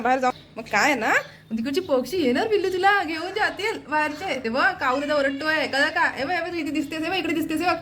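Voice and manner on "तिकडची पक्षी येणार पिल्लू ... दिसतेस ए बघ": high motherly cooing voice. Real, not acted. Cautioning toddler about birds outside.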